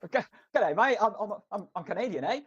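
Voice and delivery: a cartoon kangaroo that is half Aussie, half Canadian, laughing at the end. Co-host voicing a Canadian kangaroo mascot, mock Australian-Canadian accent. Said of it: "what the hell is he gonna sound like, mate?".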